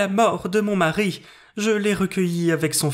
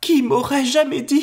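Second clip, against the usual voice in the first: higher, louder cry of disbelief; shocked outcry; 7 semitones higher, 4 dB louder than usual. Acted. Maid hears of the theft, louder shocked outcry. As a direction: burst out, unable to believe it. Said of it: "s'écria-t-elle".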